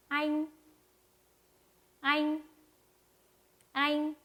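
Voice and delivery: 아잉 held high and level; high, long tone. Shown as a demonstration. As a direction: stretch 아잉 on one steady high note. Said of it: "이렇게 읽어주시면 됩니다".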